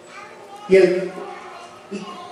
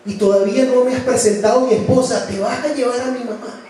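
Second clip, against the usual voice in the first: tearful plea; 3 semitones higher than usual. Retold or imitated. Son begging God to spare his mother, tearful. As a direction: plead through retold tears. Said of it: "Envuelto en lágrimas".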